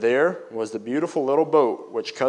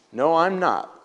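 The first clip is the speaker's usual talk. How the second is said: firm, higher defiant answer; boy answering his cousin, sturdy and defiant; sturdily; 6 semitones higher, slower than usual. A narrator's reading. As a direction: stand your ground, boyishly. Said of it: "Joe said sturdily".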